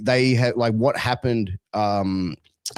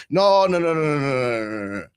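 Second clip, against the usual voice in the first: imitating parents refusing; 4 semitones higher than usual. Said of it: "let's have this conversation".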